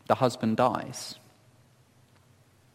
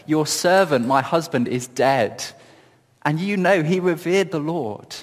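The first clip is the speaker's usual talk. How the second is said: a touch of frustration, rising on the last line; frustrated cry; 3 semitones higher than usual. Acted. Widow crying out to Elisha, mildly frustrated. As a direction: let her plea carry mild exasperation. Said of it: "You can hear frustration in her cry".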